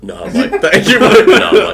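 laughing mock of his mate; teasing copy, cracking up; mocking impression. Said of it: "I don't talk like that".

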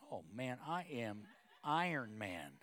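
slow, chuckling boast; proud laughing boast; laughing brag. Real, not acted. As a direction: puff up with a laugh. Bragging about fixing things.

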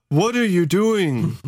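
quoted question. Retold or imitated. Valken quoted confronting hippies.

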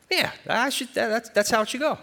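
high, quick mock agreement; mock agreeing voice. Preacher voicing a convinced listener, high and quick.

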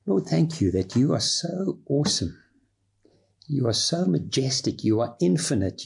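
earnest, devoted spoken prayer. Shown as a demonstration. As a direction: pray it from the heart. Prays aloud as model.

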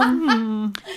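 hacking cough laugh; smoker's cough. Real, not acted. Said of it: "that was my smoker's cough".

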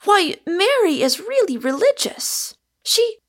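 shocked protest. A narrator's reading. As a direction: protest in alarm and stop short.

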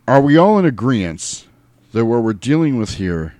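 emphatic movie-leader impression; George Clooney. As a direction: open firmly, as if addressing the group. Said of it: "like, spot on".

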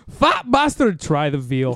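a fair stab at the Scottish character; Fat Bastard voice. Retold or imitated. Friends ask for both lines in the voice, he nails it. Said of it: "That was it".

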